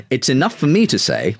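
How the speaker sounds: put-on quoting with a touch of Dawkins's accent; Richard Dawkins accent. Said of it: "trying not to do the Richard Dawkins accent".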